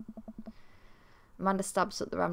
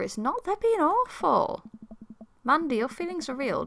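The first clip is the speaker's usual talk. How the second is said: hammed-up crying; 7 semitones higher, 3 dB louder than usual. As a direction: wail it out in exaggerated tears. Dad comforting daughter, overcome.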